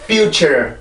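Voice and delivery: "future" with second syllable kept lightly stressed; correct future pronunciation. Shown as a demonstration. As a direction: demonstrate "future", lifting -ture instead of dropping it. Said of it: "이렇게 발음이 돼야 되고".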